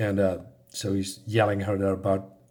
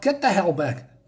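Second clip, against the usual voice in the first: higher, slow, restrained yell; mock yell; 5 semitones higher than usual. Woman warning her ex-boyfriend away, slow mock yell. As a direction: draw out a half-hearted yelled order. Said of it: "she yells at her".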